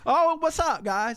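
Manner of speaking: high, loud hey guys; excited greeting. Real, not acted. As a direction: greet the viewers brightly.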